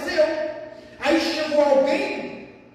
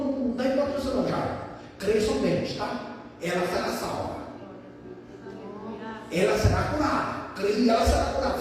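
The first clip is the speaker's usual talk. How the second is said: calm reassurance; 6 semitones lower, 5 dB quieter than usual. Acted. Jesus reassures Jairus, retold.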